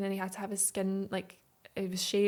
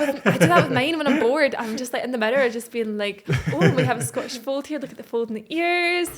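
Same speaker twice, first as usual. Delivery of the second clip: show-off cat presenter; 4 semitones higher, 10 dB louder than usual. Pretend. Showing off cat like breeders.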